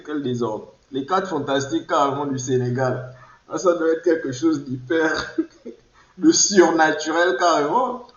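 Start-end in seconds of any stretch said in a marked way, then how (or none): 3.5-8.1 laughing. Real, not acted. Rires en parlant d'une série.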